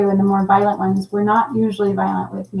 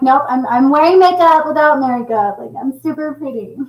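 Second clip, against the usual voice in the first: 1 mock confident; 5 semitones higher, 3 dB louder than usual. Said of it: "I'm like".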